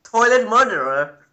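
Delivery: mock announcer.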